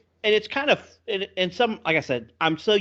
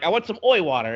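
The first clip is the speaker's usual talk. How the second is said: mock Welsh-redneck accent; 5 semitones higher than usual. Game character repeating his request, in a mock Welsh-redneck accent. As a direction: lightly imitate Welsh smeared with redneck. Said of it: "took a Welsh accent and smeared it".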